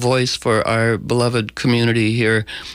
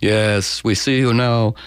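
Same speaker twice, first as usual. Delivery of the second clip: slow hypnotist voice; slower than usual. Pretend. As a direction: lull them toward the phone. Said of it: "let me put on my hypnotic voice".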